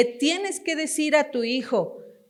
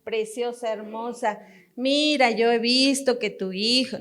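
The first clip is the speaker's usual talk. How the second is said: mock sweet coaxing. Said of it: "Ni te está diciendo".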